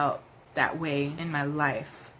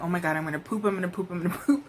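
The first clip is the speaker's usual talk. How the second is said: mock panic; much faster than usual. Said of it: "like, in panic mode".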